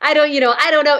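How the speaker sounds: high, gently hesitant fatherly voice; a father gently doubting his daughter; doubtful dad. Retold or imitated. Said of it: "he was like".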